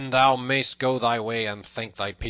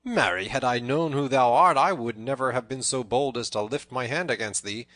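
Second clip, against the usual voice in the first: loud, raised, amazed questioning; amazed cry; 4 semitones higher, 9 dB louder than usual. A narrator's reading. Tanner to the famous Robin Hood, amazed. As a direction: exclaim in amazement at who stands before you. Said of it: "cried the tanner".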